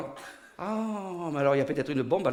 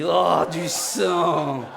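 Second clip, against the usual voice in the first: foule ravie; much slower than usual. Acted. La foule jouissait.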